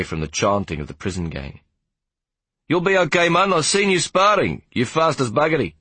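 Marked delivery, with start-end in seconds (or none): 2.7-5.7 high, lively character voice; encouraging warder. Acted. Warder reassures the boy about his fight, encouraging. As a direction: cheer on a young boxer, pitched up.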